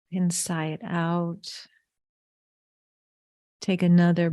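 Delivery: calm, unhurried meditation guide; guided breathing. Real, not acted. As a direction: ease them through each breath with long pauses. Leads breathing before the meditation.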